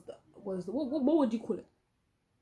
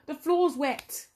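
"the floor's wet" drawn out slowly, a little higher; slow disgusted girl; 6 semitones higher, 5 dB louder, much slower than usual. Retold or imitated. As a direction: drag it out, mildly disgusted. Girl behind notices puddle.

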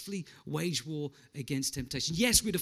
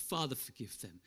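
soft and low; hushed forgiveness; quiet plea; 5 semitones lower, 10 dB quieter than usual. Retold or imitated. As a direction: murmur a prayer. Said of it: "not just once".

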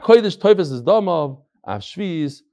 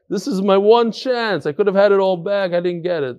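mildly pained, higher-voiced lament; retold crying; 3 semitones higher than usual. Poor man losing his one chance, mock crying. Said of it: "So the guy starts crying".

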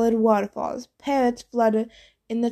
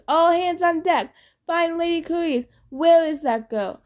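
gravelly captain shouting; 6 semitones higher than usual. Acted. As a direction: bellow orders across the deck. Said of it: "The captain's gravelly voice".

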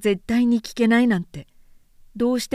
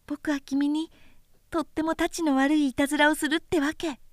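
put-on a lightly higher boyish voice, tender and earnest; little prince voice; 5 semitones higher than usual. Small prince consoling the pilot, lightly higher boyish voice. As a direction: speak like a small boy comforting a friend.

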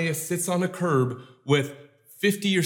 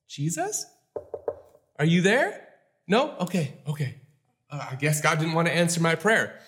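mock timid prayer. Mock weak, giving-up prayer.

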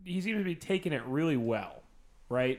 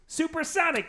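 high excited shout; excited yell. Pretend. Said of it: "he stands up and he goes".

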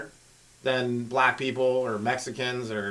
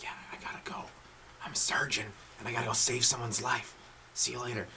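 hushed movie-theater whisper; 4 semitones lower, 13 dB quieter than usual. Acted. Surgeon leaving a movie theater, whispered. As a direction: whisper an apology as you slip out. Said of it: "you can whisper".

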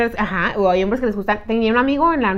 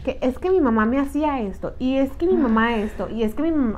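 put-on mama's boy whining; 6 dB quieter than usual. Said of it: "como dicen ustedes, mamito".

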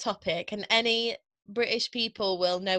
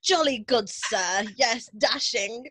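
hammed-up jolly-good British accent, slowing down; old-fashioned British. Lucy joins the joke with a mock old-fashioned British accent. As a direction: parody an old-time British gentleman. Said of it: "I'm so behind on the time".

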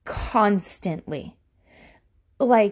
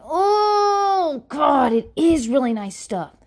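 mock crying; 6 semitones higher, 4 dB louder, slower than usual. Conceding to husband, whining.

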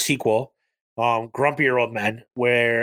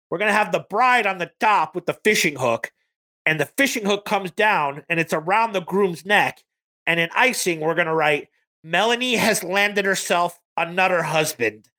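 imitating a Minnesota accent, pitched higher; lightly mocking Midwestern Minnesota accent; 5 semitones higher than usual. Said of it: "She speaks in this Minnesota accent".

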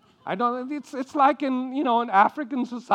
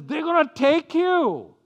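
higher, louder panicky wail; drama queen; 9 semitones higher, 6 dB louder than usual. Retold or imitated. Abraham panicking to his wife, a higher louder drama-queen wail. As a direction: fret dramatically. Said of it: "he becomes a drama queen".

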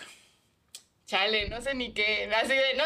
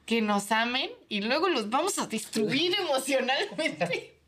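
mock villain plan; 4 semitones higher than usual. Voicing the manga author's evil plan, laughing mock-villain tone. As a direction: gloat as the cruel author.

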